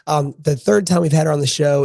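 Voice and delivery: ordinary talk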